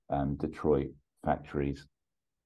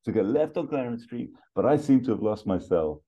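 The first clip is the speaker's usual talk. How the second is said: Axel Foley; 6 semitones higher than usual. Acted. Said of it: "Foley strides over to Sonny".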